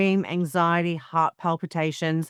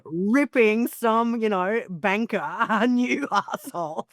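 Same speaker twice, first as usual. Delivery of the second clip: excited gush; 4 semitones higher than usual. Retold or imitated. Thrilled at Liz Hayes rage story.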